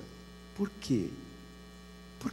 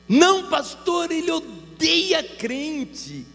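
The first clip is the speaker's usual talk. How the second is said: high, slow, plaintive voice of a tearful wife; imitating distressed wife; 12 semitones higher, much slower than usual. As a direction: play the hurt wife, pitched up and drawn out. Voicing the crying wife.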